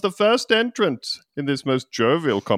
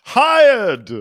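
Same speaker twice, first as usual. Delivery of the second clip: shouted; 11 semitones higher, 7 dB louder than usual. Acted. King's sudden verdict.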